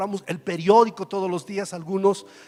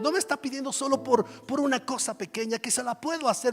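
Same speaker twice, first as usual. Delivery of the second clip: higher, marvelling voice of God; lightly voiced God; 4 semitones higher than usual. God marvelling at a bold prayer, raised pitch. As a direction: let God sound amazed and delighted. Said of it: "donde Dios diga".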